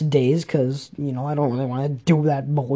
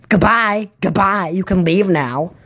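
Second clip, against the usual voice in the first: higher, singled-out goodbyes; mock dismissal; 5 semitones higher than usual. Para sending a student out, mock dismissive. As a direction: imitate a para shooing someone off.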